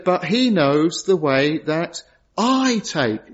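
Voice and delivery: slow, leaning hard on the word "I"; "I" set apart and weighted, the rest slow; slow reading, the word "I" stressed. Shown as a demonstration. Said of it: "The emphasis on the word I".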